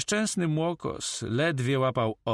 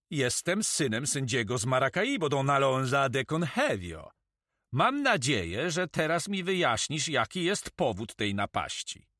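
put-on higher-pitched, confident young noble; self-assured; 5 semitones higher than usual. Young noble answers his captor, self-assured. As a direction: answer without losing your nerve. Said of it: "nie tracąc rezonu".

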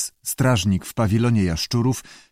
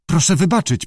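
higher-pitched dejected apology; crestfallen; 7 semitones higher, 3 dB louder than usual. A narrator's reading. Keeper begs the director's pardon, crestfallen. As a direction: apologise as if all is lost. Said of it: "powiedział załamany pan Greggs".

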